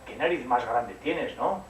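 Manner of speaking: drawn-out amazed question; wondering girl. Acted. Caperucita to the wolf in bed, slow wondering. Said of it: "le dijo".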